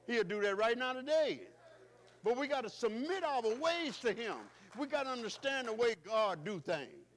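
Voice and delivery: high, loud, slowed proclamation; preaching climax. Acted. Preacher proclaiming Stephen's vision, high and loud. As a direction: build to the glory.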